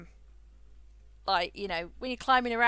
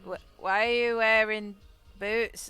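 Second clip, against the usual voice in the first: mock baffled coworkers; 5 dB louder, slower than usual. Coworkers baffled by her clothes.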